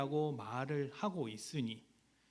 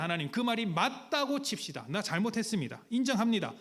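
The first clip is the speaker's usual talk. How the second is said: higher, louder, challenging God; defiant protest; 6 semitones higher, 4 dB louder than usual. Retold or imitated. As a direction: concede with bitter heat. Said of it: "따져 묻는 거예요".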